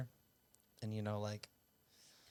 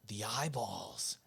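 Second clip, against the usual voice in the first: brother's spooky line; 5 dB quieter, much slower than usual. Retold or imitated. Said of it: "he'd be like".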